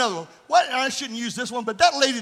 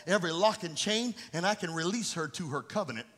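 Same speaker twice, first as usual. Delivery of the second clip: speaking as Jesus; 4 semitones lower, 5 dB quieter than usual. Acted. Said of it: "Jesus is also saying here".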